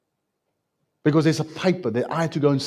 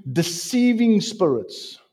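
raised, slow verse reading; slow scripture reading; 5 semitones higher, 4 dB louder than usual. Acted. Preacher reading a warning verse to the church, slow and raised. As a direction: read the warning slowly and weightily. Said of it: "some will depart from it".

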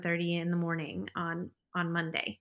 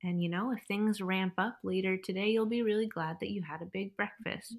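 calm, grounding suggestion. Retold or imitated. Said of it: "his suggestion was just like".

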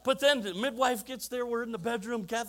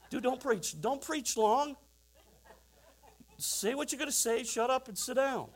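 a hint of a pushy churchgoer telling the pastor to hurry; lightly voiced mock demand to cut it short; impatient listener; 4 semitones higher than usual. Churchgoer telling the preacher to wrap up, mock impatient.

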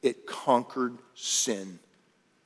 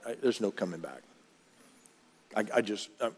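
resigned; 3 semitones lower, 5 dB quieter, faster than usual. Acted. Voices listener who has given up.

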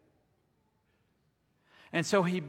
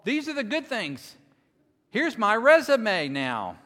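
mock boasting; 5 semitones higher, 7 dB louder than usual.

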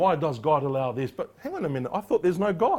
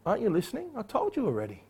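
confident retort; 5 semitones higher, 5 dB quieter, faster than usual. Retold or imitated. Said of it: "confidence of a blind man".

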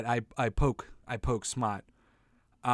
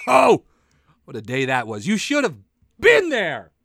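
put-on old-timer reminiscing; 8 dB louder than usual. Pretends to remember 1540.

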